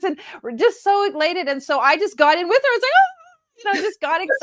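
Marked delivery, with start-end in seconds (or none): 3.0-3.7 a very high, delighted "Oh"; match her thrill with a big bright oh; mirrored excitement. Retold or imitated. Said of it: "mirrored her excitement".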